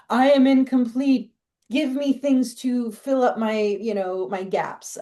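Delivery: lightly voiced clingy partner; mock needy partner. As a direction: play the one who wants to be completed, half mocking.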